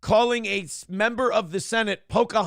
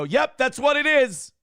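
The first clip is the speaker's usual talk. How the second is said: higher, slow smug certainty; smug dismissive; 7 semitones higher, 4 dB louder than usual. Retold or imitated. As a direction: say it like it's settled, eyes shut. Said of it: "close their eyes and go".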